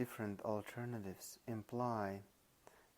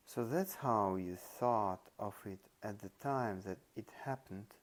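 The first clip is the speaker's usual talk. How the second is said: "thought" and "time" given extra weight; stress on time reference. Shown as a demonstration. Lecturer showing emphasis on time, with stress on "time". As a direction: lean on "time", letting "happened" drop. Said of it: "any reference to time is emphasized".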